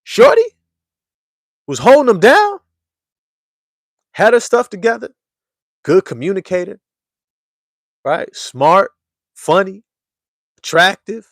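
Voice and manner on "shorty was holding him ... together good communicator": can't believe he let her go; squealing disbelief at the news; incredulous disbelief. Retold or imitated. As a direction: voice jumping high in shock at the breakup. You be like.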